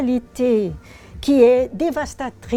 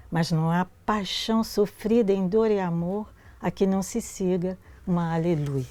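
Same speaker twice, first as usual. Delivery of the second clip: poem reading; 3 semitones lower than usual. Acted. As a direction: lecture de poème en portugais, voix posée. Reads Portuguese poem aloud.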